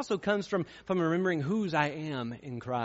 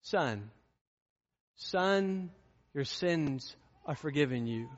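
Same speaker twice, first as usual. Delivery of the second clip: tender; slower than usual. Shown as a demonstration. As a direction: speak it gently like a father to his son. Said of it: "what he said to him".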